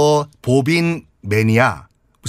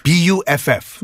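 spelled out slowly; much slower than usual. Shown as a demonstration. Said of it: "spells the word for learners".

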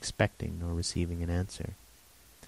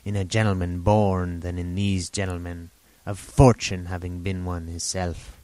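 lightly voiced rambling old sailor; a hint of an eager half-mad hermit; old castaway Ben Gunn.

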